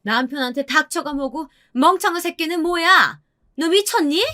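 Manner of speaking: high-pitched, indignant scolding; 성난 시어머니. A narrator's reading. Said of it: "시어머니가 저를 향해 눈을 부릅떴어요". (높은 목소리로 나무라는 시어머니)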